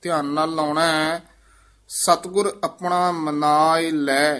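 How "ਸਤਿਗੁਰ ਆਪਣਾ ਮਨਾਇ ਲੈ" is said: "ਸਤਿਗੁਰ ਆਪਣਾ ਮਨਾਇ ਲੈ" as one phrase, brief halt after "ਲੈ"; pause placement. Shown as a demonstration. Teacher marking the pause, brief halt after "ਲੈ". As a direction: stop lightly on "ਲੈ". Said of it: "ਇੱਥੇ ਠਮਕ ਹੈ".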